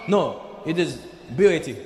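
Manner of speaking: lightly imitated Lebanese accent, separate letters; mock Lebanese English, firm correction. Host correcting the visitor about the club's name, Lebanese accent.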